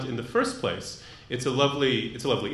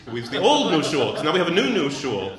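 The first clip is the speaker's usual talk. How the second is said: laughing; 3 semitones higher, 5 dB louder than usual. Real, not acted. Laughing at the name joke.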